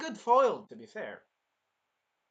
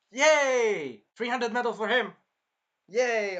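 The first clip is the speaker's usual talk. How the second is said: cheering; 5 semitones higher, 6 dB louder, slower than usual. Real, not acted. Cheering for soldier boy.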